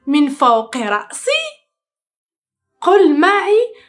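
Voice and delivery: playful pretend searching voice; reading to a toddler. Shown as a demonstration. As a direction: play a hide-and-seek game with a baby. Playful duck search game.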